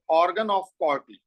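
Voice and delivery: very slow, each word spaced out; slow dictation. Shown as a demonstration. Teacher repeating the term for notes, slow and deliberate. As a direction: spell it out slowly for students to write.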